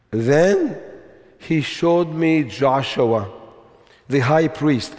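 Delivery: slow, deliberate scripture reading; measured reading with conviction; slowly, with conviction. Shown as a demonstration. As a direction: read the verse slowly, weighing each phrase. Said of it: "read it slowly and with conviction".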